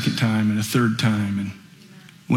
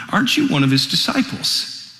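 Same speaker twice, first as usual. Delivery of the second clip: put-on higher, prodding young girl's voice; girl questioning; 14 semitones higher than usual. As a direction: poke at him like a curious servant girl. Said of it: "a girl says to him".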